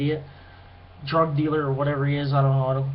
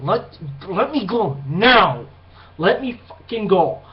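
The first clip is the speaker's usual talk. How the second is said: slow, emphatic demand to be released; firm demand; slower than usual. Retold or imitated. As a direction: retell a firm warning, hard on each word. Retold confrontation, demanding release.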